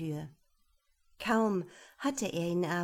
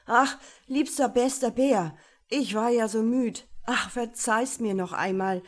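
höher und lauter, inständig flehend; flehender Prinz; 3 semitones higher, 5 dB louder than usual. Acted. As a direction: den Bären verzweifelt anbetteln. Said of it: "und er rief". (lautes, verzweifeltes Flehen)

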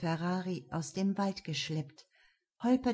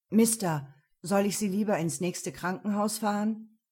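concerned driver; 4 dB louder than usual. Acted. Taxi driver asks worriedly.

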